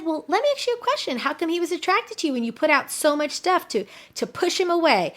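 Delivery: high-pitched, puzzled retold question; incredulous questioning. Coach asks client how he was attracted, incredulous questioning. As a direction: ask in amazement, pitched well up.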